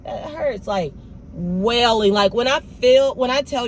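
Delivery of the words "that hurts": a light, airy little whimper; lightly hammed-up dainty cry; mock cute cry. Showing the cute cry her wailing wasn't, a mild mock whimper. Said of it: "this wasn't a cute cry".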